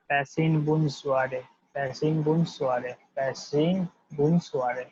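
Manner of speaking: Pasin Bun Zuare said very slowly, syllable by syllable; slow French drill. Shown as a demonstration. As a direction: drawl out Pasin Bun Zuare for students to copy. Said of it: "will be delivered as".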